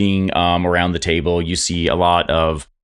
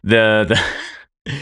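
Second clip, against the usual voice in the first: ordinary talk, nothing marked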